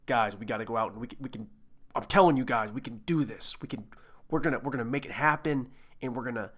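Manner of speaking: lightly put-on, hushed actor impression; Charlie Hunnam. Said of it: "That's not a very good Charlie Hunnam".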